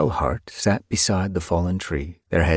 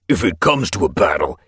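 hissing threat; 4 dB louder than usual. A narrator's reading. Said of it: "he hissed".

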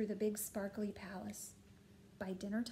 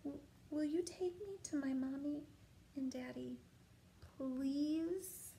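shivering; 4 semitones higher than usual. Acted. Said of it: "shivered the little princess".

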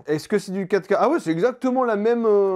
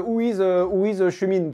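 mock English accent. Vlogger showing the translator's English, mock English accent. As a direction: pretend English accent in broken Franglais. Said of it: "ça va faire l'accent anglais en mode".

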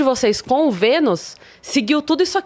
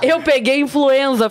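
laughing; slower than usual. Real, not acted. Laughing while talking.

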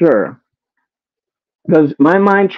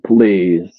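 dismissive. Retold or imitated. Telling a panelist off, a dry dismissive "Girl, please". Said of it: "then I said".

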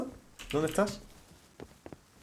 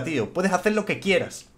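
lower, earnest motivational speech; mock sincere pep talk; 3 semitones lower than usual. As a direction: hype him up like a life coach, half joking.

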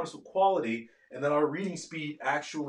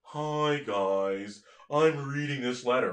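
slow reading; 4 semitones lower, slower than usual. Shown as a demonstration. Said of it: "they read really slow".

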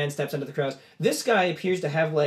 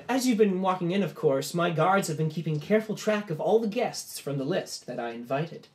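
lightly voiced host, raised pitch; pompous party host; 5 semitones higher than usual. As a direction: address the guests as their grand host. Game master voices the host.

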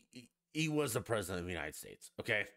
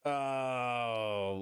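sudden loud cry of oh; startled shout; loud exclamation; 3 semitones higher, 4 dB louder than usual. Real, not acted. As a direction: blurt it out loud.

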